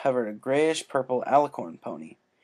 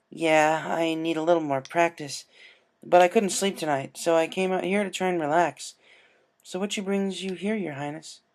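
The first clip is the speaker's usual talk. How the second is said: put-on higher young voice, casual; Rainbow Dash; 6 semitones higher than usual. Rainbow telling the princess why she's swimming, higher voice. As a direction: talk easily to royalty, pitched up.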